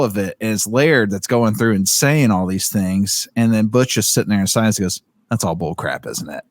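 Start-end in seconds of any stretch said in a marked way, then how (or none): 5.3-6.4 quiet admission. Retold or imitated. Butch quietly admits it's nonsense.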